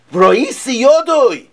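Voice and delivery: high, loud and slow, stretched in wonder; a gasp of wonder in the voice; awed exclamation. Acted. Teacher reading the verse to the class, stretched in awe.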